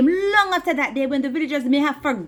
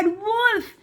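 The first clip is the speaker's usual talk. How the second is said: cry wolf; 8 semitones higher than usual. Acted. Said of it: "He started to cry".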